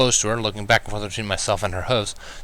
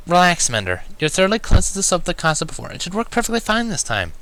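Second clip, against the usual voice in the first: reassuring; 9 semitones higher than usual. A narrator's reading. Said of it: "Twilight assured".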